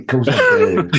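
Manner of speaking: squeaky high delighted answer; eager yes. Retold or imitated. The buyer answers his mate's offer, squeaky high and eager. Own eager reply, retold.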